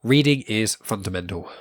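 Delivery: stuffy blocked-nose voice. Real, not acted. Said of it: "my nose is blocked up".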